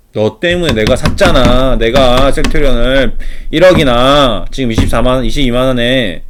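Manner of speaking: loud, drawn-out mock lament; acted blaming complaint. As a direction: play an aggrieved investor wailing blame. Acted investor blames adviser on phone.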